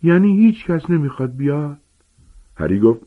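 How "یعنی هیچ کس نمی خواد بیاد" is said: higher, pleading giant's voice; hopeful, pleading gamekeeper; pleading Hagrid. A narrator's reading. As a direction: beg the class to step up.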